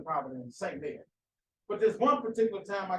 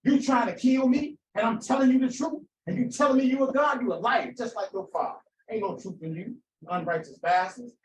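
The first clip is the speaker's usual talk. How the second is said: louder and higher, pleading for his life; heated argument; 4 semitones higher, 4 dB louder than usual. Retold or imitated. Jesus arguing with his accusers for his life, angry shout. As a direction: throw it back at them like a man fighting for his life. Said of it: "it would go something like this".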